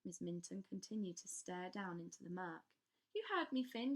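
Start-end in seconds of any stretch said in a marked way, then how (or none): 3.1-3.9 commanding governess. Acted.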